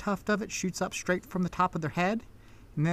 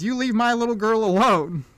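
higher, louder stern warning; protective mother; 5 semitones higher, 5 dB louder than usual. Acted. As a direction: warn off a stranger from your child. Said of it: "And she says".

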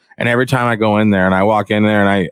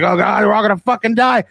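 mock panic; 9 semitones higher than usual. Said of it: "I'm like".

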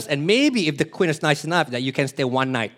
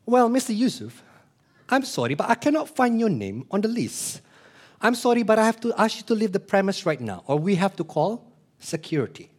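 polite guard; 4 semitones higher than usual. Retold or imitated. Guard turns visitor away.

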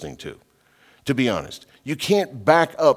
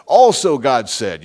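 mocking quote; 7 dB louder, slower than usual. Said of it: "they want to tell us".

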